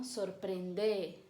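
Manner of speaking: "Sorprender" said slowly, stressed on the final syllable; stress on last syllable. Shown as a demonstration. Teacher showing the vos imperative, slow final stress. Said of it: "a última sílaba é a tônica".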